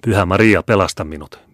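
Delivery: loud cry to the Virgin; desperate prayer. Acted. Regina cries to Mary for rescue, loud and desperate. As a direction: call out for rescue in terror.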